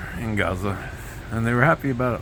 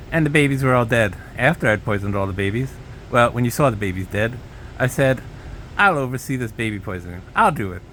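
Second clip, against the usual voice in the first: Trump impression. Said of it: "merging with a Bush accent".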